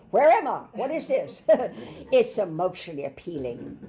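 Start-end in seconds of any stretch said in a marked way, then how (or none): 0.1-1.4 put-on high, louder baby wondering aloud; preacher voicing a newborn baby, high and wide-eyed. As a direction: give the newborn a high, puzzled little voice. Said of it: "and it's saying".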